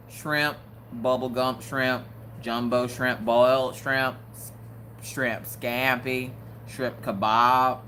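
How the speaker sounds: a lightly voiced slow Bubba listing shrimp; Bubba impression. Listing shrimp like Bubba from Forrest Gump, slow. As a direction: lightly mimic Bubba, drawn out. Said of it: "she sound like Bubba from Forrest Gump".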